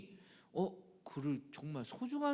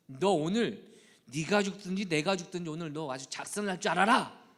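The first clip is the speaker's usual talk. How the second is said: mock furious threat, louder at the end; furious parent; 3 semitones higher, 8 dB louder than usual. Parent threatening an adult child, mock furious threat. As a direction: threaten the grown child in rage. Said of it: "부모님이 말씀하실 때".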